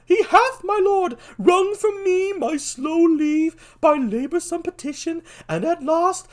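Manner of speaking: very high, loud cartoon voice; Polonius. Father begging leave for his son, absurdly high. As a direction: shriek it in falsetto, easing toward the end. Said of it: "what kind of voice am I gonna give Polonius".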